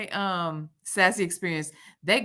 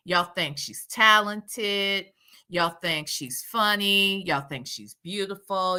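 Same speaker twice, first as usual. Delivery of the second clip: mocking list. Real, not acted.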